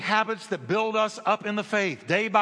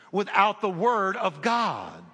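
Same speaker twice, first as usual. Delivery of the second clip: preaching shout; slower than usual. Real, not acted. Preacher climax.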